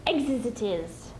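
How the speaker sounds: slow, drawn-out Gollum voice; Gollum gloating. Acted. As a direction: savour the word like Gollum. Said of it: "he hissed".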